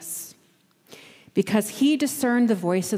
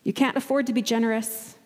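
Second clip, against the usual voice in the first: anxious inner voice; 4 semitones higher, faster than usual. Acted. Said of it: "that voice that says".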